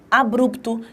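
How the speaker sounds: ABRUPTO run together as a-brup-to; everyday ABRUPTO, no break after the b; common pronunciation. Shown as a demonstration. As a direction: say ABRUPTO with br blended, tapped r. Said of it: "que é a forma que nós pronunciamos".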